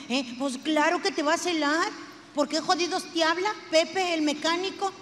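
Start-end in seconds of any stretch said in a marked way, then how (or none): 2.4-4.9 jealous accusation. Acted. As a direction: catch him in the lie. Jealous wife interrogates husband.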